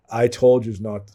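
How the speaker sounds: a flat, level warning; monotone. Retold or imitated. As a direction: say it calm and even, no yelling. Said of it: "Like, in a monotone voice".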